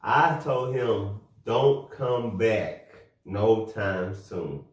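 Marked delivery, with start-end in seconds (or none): 1.4-4.6 slow, deliberate retold warning. Telling a coworker not to fly back, slow warning. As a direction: spell it out slowly, word by word.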